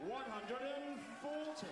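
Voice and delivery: stretched-out shouted "forty"; darts score caller. Real, not acted. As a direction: belt out the big score.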